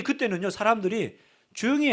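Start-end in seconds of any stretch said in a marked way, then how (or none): 1.5-1.9 mock scolding, raised pitch. Crowd silencing the blind man, mildly scolding. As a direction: imitate a crowd hushing someone. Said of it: "하고 막 윽박 지릅니다".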